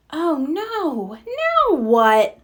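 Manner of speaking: lightly voiced nervous pup; a touch of alarm, oh no then now what; worried pup. A narrator's reading. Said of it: "Marshall asked".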